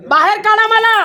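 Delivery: real, insistent challenge; defiant dare. Real, not acted. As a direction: dare them to throw you out. Dares staff to throw them out.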